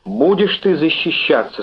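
lightly acted menacing shout; threatening cry. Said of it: "с угрозой крикнула она".

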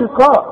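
heavy back sound in "قاء"; wrong heavy letter. Shown as a demonstration. Teacher shows pupil what not to say, wrong heavy letter. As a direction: say "قاء" thick, as the mistake to avoid. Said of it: "وما نقولش".

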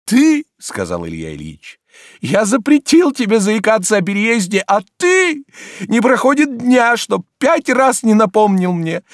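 high, loud reproachful scolding; indignant master. Acted. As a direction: scold the servant in wounded outrage. Oblomov scolds Zakhar.

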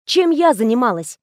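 ordinary talk

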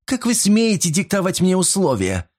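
high indignant demand; how dare you, hit hard; outraged. A narrator's reading. Silvia refusing Mot's terms, high indignant.

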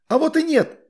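high, indignant cry; indignant shout. A narrator's reading. Astrid shouting after the boys, indignant and high. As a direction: shout after them in protest. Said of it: "крикнула им вслед возмущённая Астрид".

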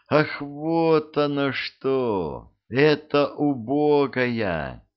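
high slow call; shouting after her. Acted. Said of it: "крикнул он ей вслед".

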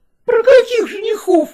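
put-on high squeal of two eager girls; shrieking. A narrator's reading. Daughters shrieking at the window about suitors. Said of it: "взвизгнули сразу два голоса".

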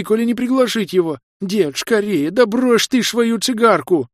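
put-on high, loud terrified old woman crying out; granny shrieking in alarm; granny warning her family of the vampire; panicked granny.

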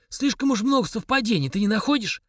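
a major insinuating the suspect did it; snide smirk. A narrator's reading. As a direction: needle him with a smirk. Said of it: "ехидно ухмыльнулся Дудуев".

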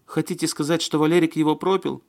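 high voice breaking into sob-like laughter; near-hysterical laughing. A narrator's reading. Маня suspecting Валерик drank it away, hysterical. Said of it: "Смех её был похож на рыдание".

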